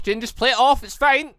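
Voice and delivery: ordinary talk, nothing marked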